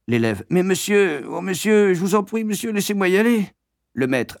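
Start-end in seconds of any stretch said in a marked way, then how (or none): 0.5-3.5 put-on high, rushing desperate boy; frantic schoolboy pleading; desperate begging. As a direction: plead as if about to burst.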